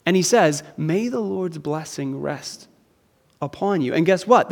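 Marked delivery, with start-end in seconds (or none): 0.8-3.9 gentle blessing. Acted. Preacher voicing Jesus blessing.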